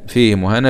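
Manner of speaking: فيه مهانة with long "hii" in فيه; haa with sila. Shown as a demonstration. Teacher repeating Hafs's reading, فيه مهانة with long "hii". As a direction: link فيه to مهانة through an added yaa. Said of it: "بالصلة".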